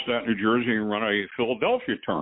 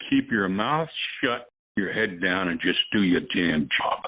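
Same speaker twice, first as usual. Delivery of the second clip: light Italian mobster accent, mildly imitated; a hint of an old-country Italian boss giving orders. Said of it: "let's see if I can do it with the Italian accent".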